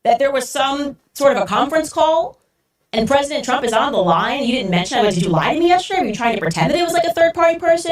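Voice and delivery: catching the source in a lie; shocked accusing. Retold or imitated. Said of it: "And I go".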